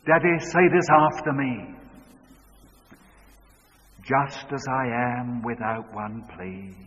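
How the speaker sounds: put-on the six-year-old as teacher; lightly voiced little girl. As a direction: lead him line by line. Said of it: "this is what she said".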